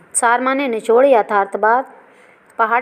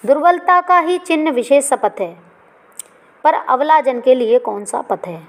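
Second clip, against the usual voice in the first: poem recitation; 3 semitones higher than usual. Acted. Teacher quoting the verse before explaining it, measured. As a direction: recite the couplet aloud, measured.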